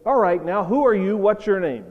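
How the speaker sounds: a touch of officer's challenge; lightly voiced stern officer. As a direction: lightly play an officer demanding an answer. Officer confronts boy who hit him.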